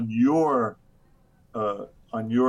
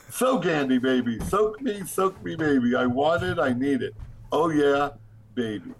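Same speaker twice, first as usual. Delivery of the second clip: mock ecstatic plea. Reads hammed-up plea to be soaked.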